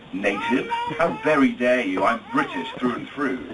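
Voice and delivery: playfully affronted Brit taking offence; hammed-up outrage with proud emphasis; mock indignation. Groom answering his best man's question, mock indignant.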